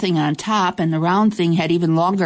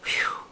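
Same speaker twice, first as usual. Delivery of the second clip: relieved whew; 8 dB quieter than usual. Acted. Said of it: "the little girl said in her regular voice".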